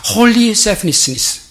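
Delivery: softly stretched "holy selfishness", very slow; stress on holy. Shown as a demonstration. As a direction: linger on "holy" as the contrast. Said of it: "그냥 이기심은 나쁜 거예요". ("holy"를 강조하며 부드럽게 느리게)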